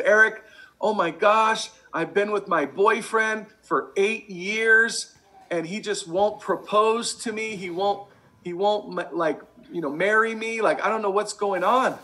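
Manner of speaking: put-on slow, pleading girlfriend voice; a woman pleading with her friend for help; quoted friend. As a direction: play the frustrated friend begging for advice. Friend complaining, quoted in story.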